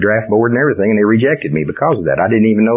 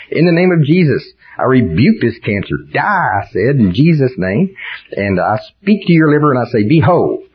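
commanding healing prayer; 3 semitones higher than usual. Acted. Acted healing rebuke.

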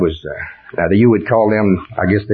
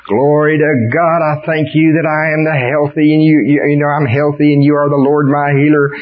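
praying through a cold; 5 semitones higher than usual. Acted. Acted sick believer praying.

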